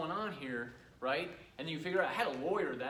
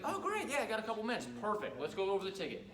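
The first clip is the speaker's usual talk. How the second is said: customer's voice, pitched higher and brighter; eager customer; 5 semitones higher, faster than usual. Retold or imitated. Homeowner cheerfully answering the sales call. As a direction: play the happy homeowner agreeing to a quick chat. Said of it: "She's like".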